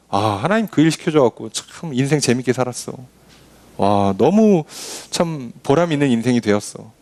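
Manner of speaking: lightly voiced grateful believer; persona di fede appagata. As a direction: look back on life with satisfaction, a little low. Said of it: "이게 믿음의 사람, 지혜로운 사람이죠".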